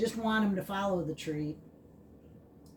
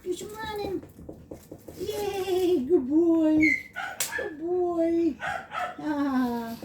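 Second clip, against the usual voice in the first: excited doggy-talk; 8 semitones higher, slower than usual. Real, not acted. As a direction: cheer and coax the puppy. Playing with excited puppy.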